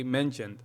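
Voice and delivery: "Mentioned" ending in a light tongue tap; subtle final T. Shown as a demonstration. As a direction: let the tongue just touch the palate ending "Mentioned". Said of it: "like a subtle".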